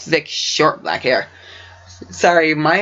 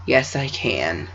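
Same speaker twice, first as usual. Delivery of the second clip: sighing; 3 semitones lower, 5 dB quieter, much slower than usual. Acted. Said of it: "Luna sighed and replied".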